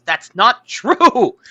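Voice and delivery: high, slow laugh through the words; laughing in disbelief. Real, not acted. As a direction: laugh it off as absurd. Mocking the bro argument.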